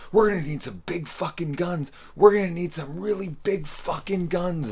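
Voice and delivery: cracked, shrill hysterical yell for bigger guns; lost it completely. Retold or imitated. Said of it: "Dick loses it".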